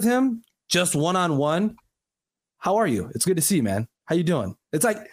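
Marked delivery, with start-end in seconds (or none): 2.6-4.5 put-on light Italian-American accent; a hint of the dad's greeting accent. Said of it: "where does the fucking accent come from".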